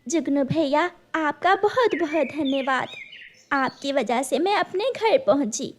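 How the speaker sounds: soft, thankful bird voice; grateful mother bird. Acted. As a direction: thank the firefly sincerely.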